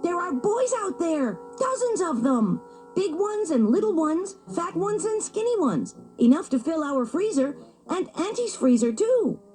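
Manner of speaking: high, urgent pup voice; excited shouting. A narrator's reading. Little Wolf telling his parents about the boys, excited. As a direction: burst in with the news.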